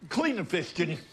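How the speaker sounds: quick, high-pitched instruction; casual order. Acted. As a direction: toss the chore over to Ginny. First order to clean fish.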